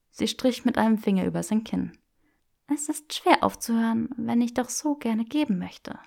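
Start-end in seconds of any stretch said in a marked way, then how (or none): 2.7-6.0 put-on higher, playful young woman; teasing Hermione voice. Granger teasing Draco in the bookshop, playful and higher. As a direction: tease him with mock refusal.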